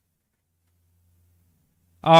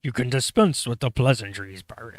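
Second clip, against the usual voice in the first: raspy robotic general; Grievous voice. Shown as a demonstration. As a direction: try a rasping cyborg villain. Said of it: "I can't do it".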